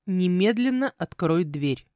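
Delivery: slow, firm order; confident command. Acted. Man behind the door to the heroine, confidently commanding. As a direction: order it with measured authority. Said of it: "раздалось уверенно из-за двери".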